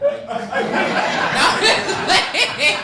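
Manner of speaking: laughing it off, high and slow. Real, not acted. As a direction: giggle through it, teasing. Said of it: "Y'all need to clap".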